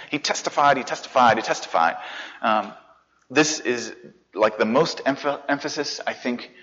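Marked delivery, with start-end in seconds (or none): 0.1-2.0 first "He confessed" high, then stepping down; emphatic repetition. Shown as a demonstration. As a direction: repeat "he confessed" three times, falling each time. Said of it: "I wanna emphasize something here".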